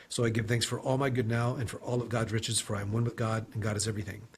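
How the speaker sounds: reciting an affirmation. Shown as a demonstration. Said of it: "the affirmation is this".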